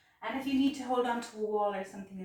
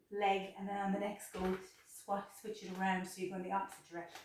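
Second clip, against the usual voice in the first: out of breath. Real, not acted. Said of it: "I'm actually out of breath".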